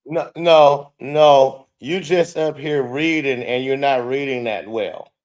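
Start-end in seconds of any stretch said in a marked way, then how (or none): 0.0-1.7 loud firm no, no, no. Real, not acted. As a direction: cut it off loudly. Cutting off the clip.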